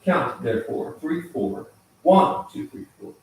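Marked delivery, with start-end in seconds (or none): 2.0-3.1 "One" punched high and loud, the rest dropping away; accent on first beat. Shown as a demonstration. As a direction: hit "One" hard, let "two, three, four" fade. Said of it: "accent on the first beat".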